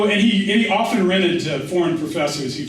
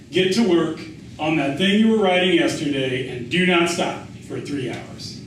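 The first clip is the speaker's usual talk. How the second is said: mock slave driver. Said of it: "sending my writing slave into the fields".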